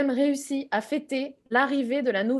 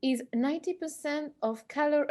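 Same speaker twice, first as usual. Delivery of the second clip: talking through food; words round a mouthful; mouth full; 3 semitones higher, 4 dB quieter than usual. Retold or imitated. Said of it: "Alors qu'elle a encore la bouche pleine".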